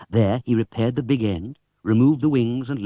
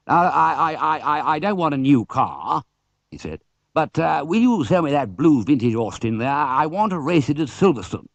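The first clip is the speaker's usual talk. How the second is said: put-on higher, stuttering eager young man; stammering racer; 4 semitones higher than usual. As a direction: trip over the first words.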